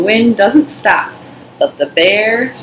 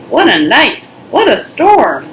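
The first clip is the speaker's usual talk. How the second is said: mole voice; 5 semitones higher, 4 dB louder than usual. Acted. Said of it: "Mole mutters".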